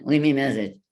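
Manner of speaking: the greeting as it sounds on playback; mock voicemail greeting; heard back on playback. Shown as a demonstration. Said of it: "when I would hear that back".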